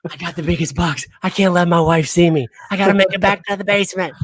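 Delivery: imitated breathless hurry; huffing and puffing. Friend imitating a man sneaking a huge box past his wife, huffing. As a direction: speed up as if puffing under a load. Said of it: "he's just huffing and puffing down to the basement".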